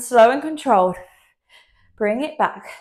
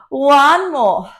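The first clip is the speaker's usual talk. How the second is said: whisper; 4 semitones higher, 4 dB louder than usual. Real, not acted. Instructor whispering count.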